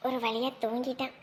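soft, low relieved murmur; relieved hush. Acted. Mother murmuring softly beside the sleeping baby. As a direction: keep it quiet so the baby stays asleep. Baby finally asleep, whispering.

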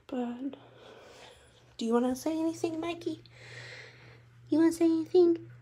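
sing-song question to the bearded dragon. Real, not acted. Asking her lizard to talk.

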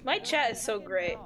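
laughing through the words; amused praise. Real, not acted. Streamer tickled by the chat, laughing. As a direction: break into laughter on the compliment.

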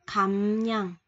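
khẩm nhân said slowly and clearly as a model; teacher shows how to read khẩm nhân; Korean word read out. Shown as a demonstration. Teacher models a Korean word for learners, clear demo reading. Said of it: "Mình sẽ đọc là khẩm nhân ha".

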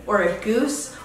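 goose, like the bird; guessed pronunciation. Shown as a demonstration. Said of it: "How do you pronounce that?".

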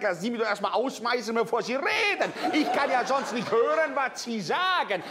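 Sklavenstimme, höher, mit unterdrücktem Lachen; lachend gesprochen. Acted. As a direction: lacht über die eigene Pointe hinein. Sklave antwortet dem Pharao, lachend. (der Sklave widerspricht dem Pharao, dabei lachend)

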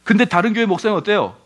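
ordinary talk, nothing marked

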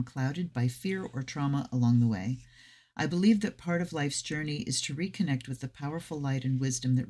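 measured guidebook reading; reading aloud. Acted. Tarot reader sharing the deck's introduction, reading aloud. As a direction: read the introduction to listeners evenly.

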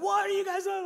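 high, put-on voice of a suspicious mom; a lightly hammed-up mom questioning the boys. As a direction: play the mom at the door. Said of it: "Mom comes out".

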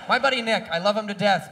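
normal talking voice

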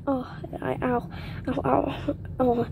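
squeezed and wincing; quiet pained ows while cramped; crammed in a tight space. Real, not acted. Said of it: "It's tight in here".

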